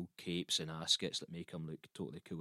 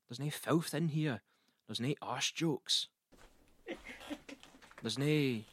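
drawn-out, raised-pitch mock dismay; appalled complaint; 8 semitones higher, 3 dB louder, slower than usual. Poet finds his books lacking, slow and appalled.

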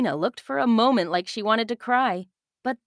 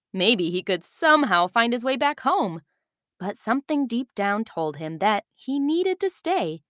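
put-on calm storyteller reading to children; story narration; 3 semitones higher than usual. A narrator's reading. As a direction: tell it like a bedtime story. Narrator reads story aloud.

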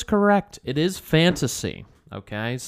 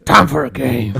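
whispering; 8 dB louder than usual. Pretend. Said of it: "How would the Saw Doll in medieval times ask to play a game?".

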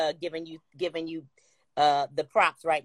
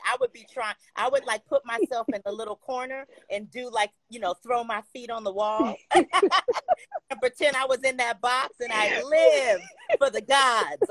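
excited; 6 semitones higher than usual. Real, not acted. Gushing about copying a singer's video.

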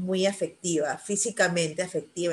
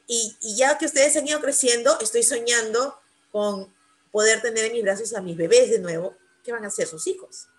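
tearful plea; 3 semitones higher than usual. Retold or imitated. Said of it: "yo me puse a llorar".

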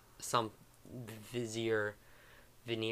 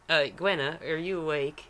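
louder, higher southern call; southern accent; 5 semitones higher, 7 dB louder than usual. Acted. Game master's character wakes Gwenna, southern accent. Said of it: "get in my southern accent".

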